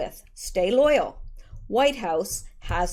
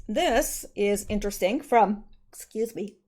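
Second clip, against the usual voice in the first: talking through a yawn; stifling a yawn mid-sentence. Real, not acted. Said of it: "there's a yawn taking over my face".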